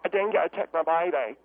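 hammed-up bereaved mother impression; impression of dingo-case mother. Amateur performing her lady-and-dingo impression, hammed-up mother role. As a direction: play the lady whose baby the dingo took. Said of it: "Here's my impression of the lady".

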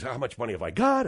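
low, muttering the worried gambler; scared poker player. Retold or imitated. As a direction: count your chips under your breath, worried.

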